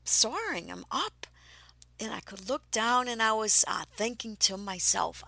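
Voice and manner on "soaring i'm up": thrilled. Retold or imitated. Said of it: "I'm like".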